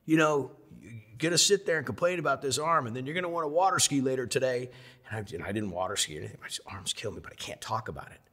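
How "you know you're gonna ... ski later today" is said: mock yell. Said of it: "he's yelling at me".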